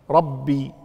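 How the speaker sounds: ربي with the ba clearly geminated; doubled ba. Shown as a demonstration. Teacher pointing out a shadda, doubled ba in ربي. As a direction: hold the "bb" of ربي. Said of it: "الباء".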